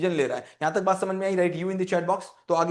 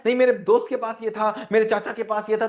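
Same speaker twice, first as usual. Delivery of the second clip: put-on pleading child; 4 semitones higher, 3 dB louder than usual. Child citing friend's toy.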